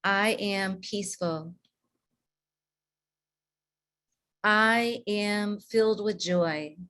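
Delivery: slow, calm, sincere affirmations. Shown as a demonstration. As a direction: say each one slowly like you mean it. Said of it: "say out loud".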